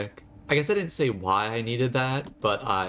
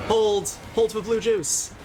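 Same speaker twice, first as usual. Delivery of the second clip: loud, high urgent call for a pause; shouted call; 11 semitones higher, 3 dB louder, slower than usual. Real, not acted. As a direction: yell it out to the whole party, urgent. Calling out to allies mid-fight.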